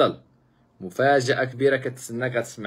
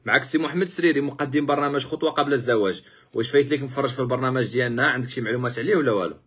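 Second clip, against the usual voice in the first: louder repeat; 2 semitones higher than usual. Real, not acted. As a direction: repeat it louder over a bad line. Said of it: "نعم؟".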